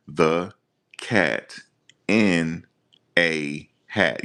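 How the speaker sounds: each word alone, with long pauses between; halting word-by-word reading. Shown as a demonstration. Mocking a man reading out court documents, halting word by word. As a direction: read The Cat in a Hat one word at a time, like a stiff beginner. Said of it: "You ever see people read like that?".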